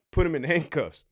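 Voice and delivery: offhand, innocent-sounding report to the sergeant; evasive understatement. Acted. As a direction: play it down casually. Acted evasive officer answering the sergeant.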